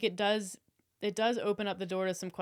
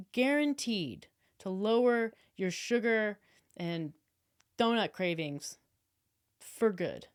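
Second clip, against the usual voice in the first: hammed-up wellness guru pitch; slow, salesy influencer promo voice; bad acting. Shown as a demonstration. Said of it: "deliver it like this".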